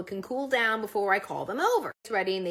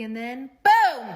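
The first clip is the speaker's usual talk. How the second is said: slow, punchy and much louder; sudden boom; 2 semitones higher, 10 dB louder, slower than usual. Retold or imitated. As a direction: blurt the boom out loud. Climax of husband's egg speech.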